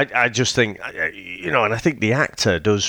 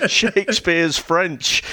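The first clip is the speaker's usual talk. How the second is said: high, slow, laughing through it; giggling rant quote, much higher; 9 semitones higher, slower than usual. Retold or imitated. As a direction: squeak it out mid-laugh.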